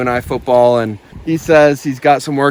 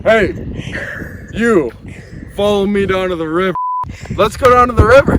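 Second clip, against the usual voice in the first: high, calling and coaxing; squeaky high invitation; very high pitch; 8 semitones higher than usual. Pretend. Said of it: "Why is your voice so high?".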